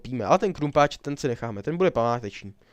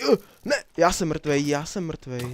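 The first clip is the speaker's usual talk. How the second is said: dismay; 4 semitones higher, 4 dB louder, slower than usual. Real, not acted. Dies in game.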